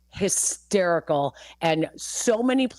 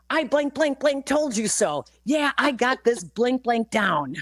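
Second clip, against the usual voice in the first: play-acted yelling with held-back volume; mild mock yell; 6 semitones higher than usual. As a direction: imitate the pitcher's triumphant holler.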